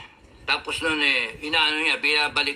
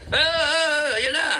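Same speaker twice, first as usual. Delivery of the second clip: mock panic; 10 semitones higher, faster than usual. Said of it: "hindi yung ganyan na".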